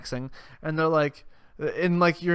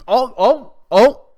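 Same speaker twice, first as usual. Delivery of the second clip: loud, high-pitched mock interjections; mock affront; 10 semitones higher, 11 dB louder, slower than usual. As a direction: pop each one up high, imitating someone scandalized. Acting his affronted interruption.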